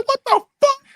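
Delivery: very high-pitched startled outcry; squeaky mock alarm; retold alarmed shock. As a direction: act out being startled at night. Retold shock at noise at night.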